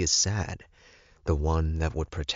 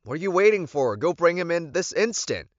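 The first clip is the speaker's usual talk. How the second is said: impatient yell; 13 semitones higher than usual. Acted. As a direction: snap the order out, impatient. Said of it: "I yelled at him".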